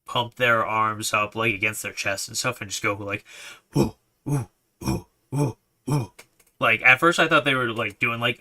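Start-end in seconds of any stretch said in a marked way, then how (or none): 3.7-6.1 rhythmic crowd woo-woo; woo chant. Retold or imitated. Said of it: "a gorilla sound".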